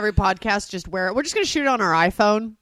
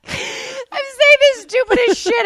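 high, slow, slurred and teary; slurring; 12 semitones higher, 3 dB louder, slower than usual. Retold or imitated. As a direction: drag the words out slurred. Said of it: "almost slurring".

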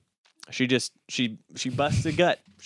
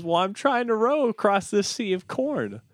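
higher airhead voice, a light ditzy blonde; 10 semitones higher than usual. Acted. Blonde in the cornfield explains herself in a higher ditzy voice. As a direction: play the blonde as cheerfully clueless.

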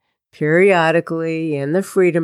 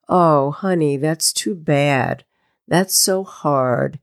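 sympathetic friend. Shown as a demonstration. Coach voicing a friend consoling someone, slow and soothing. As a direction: console her gently like a friend would. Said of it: "like a friend".

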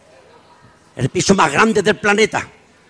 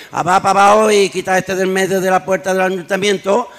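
a hint of a grave, lower mayor; serious mayor; 3 semitones lower, 3 dB quieter than usual. Mayor orders the shouting man away, serious and low. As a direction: play the mayor dead serious, voice dropped. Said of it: "dice el alcalde muy serio".

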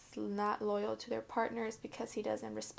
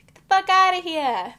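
full-throated shout, pitched higher; shouted catchphrase; 8 semitones higher, 16 dB louder than usual. Shown as a demonstration. Teasing her cousins with a higher shouted catchphrase. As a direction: yell it at your cousins for a laugh. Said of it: "That's, like, my saying".

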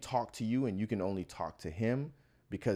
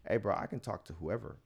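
softer, level, unbothered retort; very calm; 5 dB quieter than usual. Retold or imitated. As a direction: stand your ground without raising your voice. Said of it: "very calmly".

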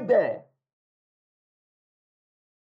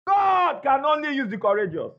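preaching shout; 3 semitones higher than usual. Real, not acted. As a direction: proclaim it to the back row. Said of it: "Hear what I said?".

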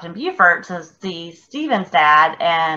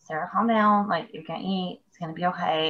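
self calming; 9 dB quieter than usual. Retold or imitated. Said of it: "and just be like".

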